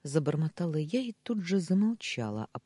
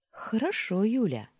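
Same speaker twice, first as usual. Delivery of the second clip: higher, louder, playful agreement; giggly; 8 semitones higher, 4 dB louder than usual. A narrator's reading. Maid switches to first names, lightly giggly. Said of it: "хихикнула Амина".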